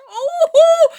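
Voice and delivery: sudden high yelp of shock, half laughing; loud cry. Retold or imitated. Narrator yelping as she relives her friend's crash. Recalling friend hitting pole.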